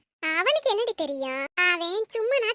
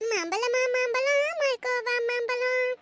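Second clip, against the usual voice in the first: slow, sing-song street vendor cry; hawker's call; 3 semitones higher, 3 dB quieter, slower than usual. Acted. Niece calls out like a mango seller, slow and drawn. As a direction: stretch it out like selling mangoes on the street.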